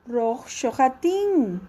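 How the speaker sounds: shohatin repeated slowly after the tape. Shown as a demonstration. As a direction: echo shohatin slowly for the class. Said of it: "ayúdanos con el verbo bañarse". (la maestra repite shohatin despacio para la clase)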